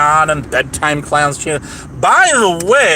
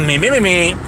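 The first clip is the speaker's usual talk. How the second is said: vocal warm-up; 2 semitones higher than usual. Pretend. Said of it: "in the proper accent here".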